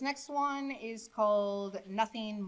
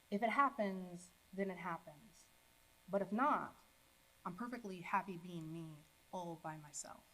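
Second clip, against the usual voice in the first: measured spoken-word poetry reading; poem recitation. Acted. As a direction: recite in short phrases, softening at the ends. Recites own poem to audience.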